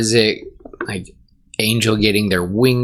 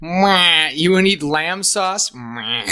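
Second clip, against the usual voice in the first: ram bleat; 5 semitones higher, slower than usual. Retold or imitated. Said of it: "Gordon ram bleats".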